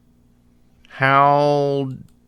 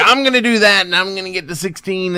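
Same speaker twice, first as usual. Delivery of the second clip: excited dreaming; 6 semitones higher than usual. Retold or imitated.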